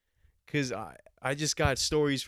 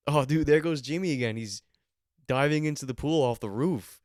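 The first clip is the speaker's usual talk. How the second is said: mock party hype; 4 dB louder than usual. Imagined partygoers cheering.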